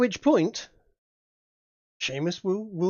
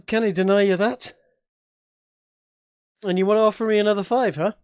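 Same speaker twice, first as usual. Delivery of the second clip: fake Irish accent; 2 semitones higher, 4 dB louder than usual. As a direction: play a sly Irish demon haggling. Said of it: "Bit of a Dice fake accent".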